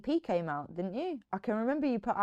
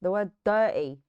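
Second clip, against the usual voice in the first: mock British dirty; 5 dB louder than usual. Shown as a demonstration. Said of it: "doing the British accent is just saying".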